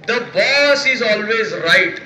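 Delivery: slow, drawn-out movie line; film dialogue. Retold or imitated. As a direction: deliver it like a filmy hero, very slowly. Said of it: "त्याच्यामध्ये एक dialogue आहे". (फिल्मी dialogue, खूप सावकाश)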